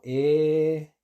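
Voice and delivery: "E" alargada, vocal abierta entre e e i; sostén una "E" larga; i sin acento. Shown as a demonstration. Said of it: "sin acento son lo mismo". ("E" larga, como i islandesa sin acento)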